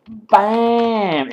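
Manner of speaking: loud, high, drawn-out shout; excited exclamation. Real, not acted. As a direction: let it burst out after a gasp. Exclaims at achievement.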